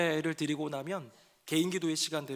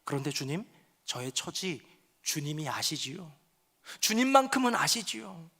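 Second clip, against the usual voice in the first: surrendering prayer. Acted. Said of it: "하면서 눈물의 기도가 변화되는데요".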